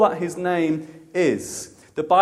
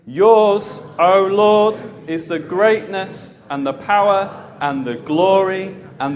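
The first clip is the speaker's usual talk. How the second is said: slow, weighty congregational reading aloud; big voice; 2 semitones lower, 4 dB louder, slower than usual. Real, not acted. Preacher leads congregation reading the verse together, big voice. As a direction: lead them in a big, declaring voice. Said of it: "in a big voice".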